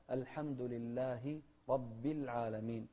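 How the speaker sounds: لله slowly ending in a distinct -hi; slow down and sound the i of لله; clear kasra. Shown as a demonstration. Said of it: "نفس الشيء في كسرة". (لله بكسر الهاء بتمهل)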